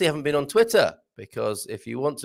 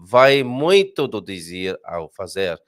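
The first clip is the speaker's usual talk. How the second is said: Portuguese; 5 semitones lower, 6 dB louder, slower than usual. Shown as a demonstration. Reads Portuguese proverb slowly.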